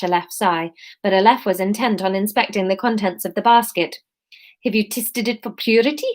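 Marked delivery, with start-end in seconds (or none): 4.6-6.1 a hint of South African; lightly voiced South African customer; light South African accent. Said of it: "we can do Aleph as South African".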